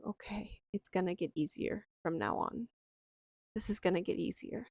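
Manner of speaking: soft words to oneself with a smile; smiling self-reassurance. Retold or imitated. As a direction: gently reassure yourself, quietly hopeful. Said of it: "having this smile on my face and saying".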